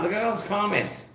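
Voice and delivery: normal talking voice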